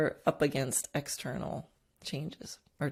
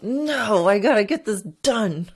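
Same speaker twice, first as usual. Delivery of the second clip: stubborn insistence; 4 semitones higher, 8 dB louder than usual. Retold or imitated. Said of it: "the other part of your brain goes".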